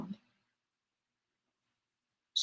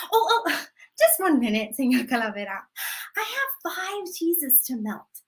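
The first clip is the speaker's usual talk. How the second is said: grandma stalling. Acted. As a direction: sweetly beg for one more minute. Grandma stalling Death again.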